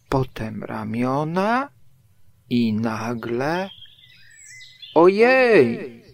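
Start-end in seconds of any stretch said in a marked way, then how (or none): 4.9-6.0 high, loud startled exclamation; crying out. A narrator's reading. Pooh sticks halfway out of the burrow, crying out. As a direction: exclaim loudly as a bear suddenly stuck. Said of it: "zawołał Puchatek".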